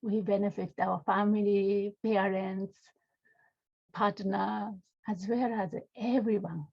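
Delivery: unhurried meditation guidance with long pauses; guided meditation. Real, not acted. Teacher leading students to feel into the body, guided meditation. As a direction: guide them gently, phrase by phrase, leaving space.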